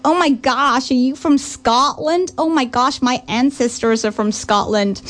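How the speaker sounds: mock-gushing American tourist accent, lightly done; hint of a starstruck American accent. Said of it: "He's just done the funniest American accent".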